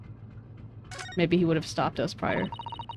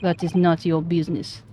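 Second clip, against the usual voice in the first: put-on curt Russian accent; 3 semitones lower than usual. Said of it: "I'm so bad at this Russian accent".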